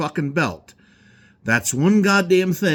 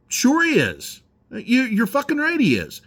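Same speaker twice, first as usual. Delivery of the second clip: dry, higher mock agreement; sarcastic; 8 semitones higher than usual. Real, not acted. Ranting at rumors about Walz, sarcastic agreement. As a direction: agree with heavy sarcasm, not meaning it.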